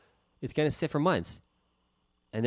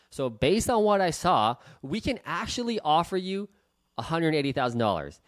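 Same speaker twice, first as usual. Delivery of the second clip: upbeat offer; 3 semitones higher than usual. Shown as a demonstration. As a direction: sell the number like good news. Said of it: "Do you see my tonality and the way I said that".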